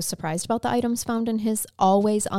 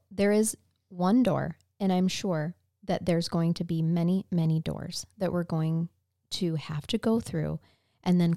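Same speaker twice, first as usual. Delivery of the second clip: reading a family statement; 3 semitones lower, 3 dB quieter than usual. A narrator's reading.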